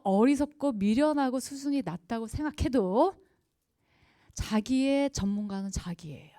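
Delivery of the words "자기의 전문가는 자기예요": whisper. Real, not acted. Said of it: "whispered point".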